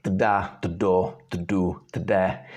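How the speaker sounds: T plus D before each vowel; starter syllables. Shown as a demonstration. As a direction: practise tda, tdo, tdu, tde as separate syllables. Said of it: "You can start with just syllables".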